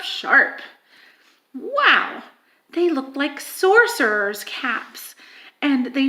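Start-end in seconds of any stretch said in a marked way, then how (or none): 0.0-0.6 last sharp whispered. A narrator's reading. Reader whispering the last sharp to the listeners. Describing needle-pointed towers. 1.5-2.2 amazed wow, higher. Real, not acted. Reader marvelling at the castle towers aloud.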